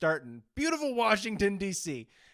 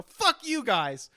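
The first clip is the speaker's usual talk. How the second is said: slow, louder, higher curse; retold angry outburst; 7 semitones higher, 5 dB louder, much slower than usual. Caller telling the cops off, a slow loud curse. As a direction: drag out the swear at them. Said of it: "You go".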